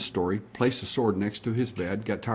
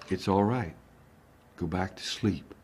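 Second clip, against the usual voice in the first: low, soft soothing; quiet re-enacted comfort; calm reassurance; 3 semitones lower, 6 dB quieter than usual. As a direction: settle someone back to sleep, softly. Soothing her after her fright.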